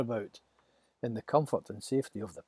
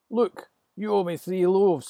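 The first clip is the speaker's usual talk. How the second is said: higher, louder squabbling voice; one Israelite arguing over bread; quarrelsome demand; 7 semitones higher, 8 dB louder than usual. Acted.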